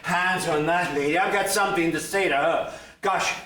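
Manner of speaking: huffing and puffing after a run; out of breath. Acted. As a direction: talk while panting hard. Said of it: "Stop your huffing and puffing".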